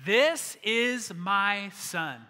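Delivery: God proclaiming, each word drawn out; booming God's voice. Acted. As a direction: boom it out word by word from the heavens. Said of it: "God's voice came booming out".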